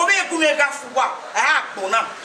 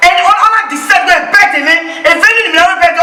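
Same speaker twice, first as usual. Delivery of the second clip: angry; 3 semitones higher, 5 dB louder than usual. Acted. Girlfriend confronts boyfriend.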